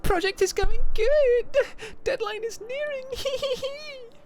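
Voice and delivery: Sasso voice. Acted. Streamer voices the character for chat, squeaky and high. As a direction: pitch way up and cackle the hee hee hee. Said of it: "I'll do this in a Sasso voice".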